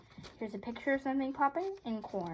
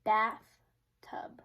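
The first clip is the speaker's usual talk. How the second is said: whispered. Real, not acted. Child reading word aloud.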